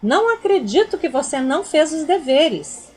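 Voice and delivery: indignant exclamation. Shown as a demonstration. Teacher demonstrating an exclamation, indignant. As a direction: exclaim in disbelief. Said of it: "Ponto de exclamação".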